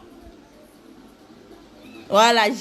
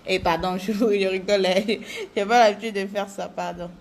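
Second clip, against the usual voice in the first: real laugh through the words. Real, not acted. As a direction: giggle while apologising. Laughs at her own joke. (en riant, un vrai rire)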